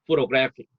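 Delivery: photographic with main stress on GRAPH and secondary stress on PHO. Shown as a demonstration. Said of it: "그래의 주강세가 오고".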